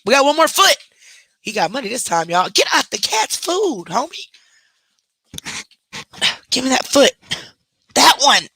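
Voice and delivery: high-pitched coaxing of a pet. Real, not acted. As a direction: pitch way up to coax the dog. Wiping the dog's feet.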